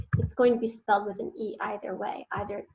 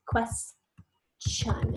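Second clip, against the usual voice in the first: whispered word. Shown as a demonstration. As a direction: Question whispered with no voice. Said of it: "I hear that short E".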